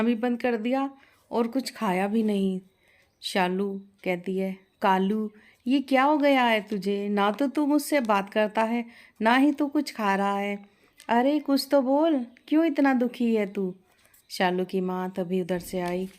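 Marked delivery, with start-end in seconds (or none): 4.8-13.7 put-on worried young woman coaxing her pet, a bit higher; coaxing young bride. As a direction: plead gently with the silent parrot. Shalu coaxing her sad parrot. (चिंतित बहू की मनुहार)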